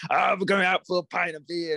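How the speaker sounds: mock a cliché British bloke in a British accent; stereotypical British accent. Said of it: "they could have just added".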